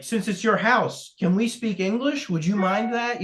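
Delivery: a light, polite, lifted take on the chipper colonel; mildly imitating the proper colonel. Retelling the colonel questioning the farmer, lightly chipper and proper. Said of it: "he's so chipper and very proper".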